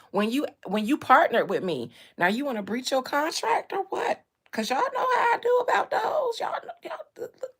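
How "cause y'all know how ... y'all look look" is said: high, laughing squeal. Real, not acted. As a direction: break into laughter. Laughing outburst.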